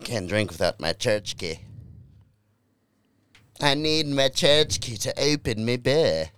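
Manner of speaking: lightly hammed-up Irish accent, slow and drawn out; slow mock-Irish lilt; put-on Irish brogue. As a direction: play at an Irish drinker's brogue. Puts on a brogue unprompted.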